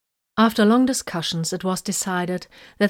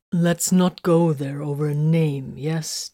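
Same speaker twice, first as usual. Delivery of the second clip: polite; 3 semitones lower, slower than usual. Acted. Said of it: "Titus asked politely".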